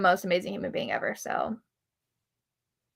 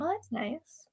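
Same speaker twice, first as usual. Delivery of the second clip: whisper; 5 semitones higher, 10 dB quieter, much slower than usual. Real, not acted. Whispered aside during live chat.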